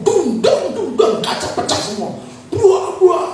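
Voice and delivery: high-pitched verbal crash noises; excited storyteller's sound effects; imitated crashing. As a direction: act out the smashing with your voice. Imitates stones smashing the windows.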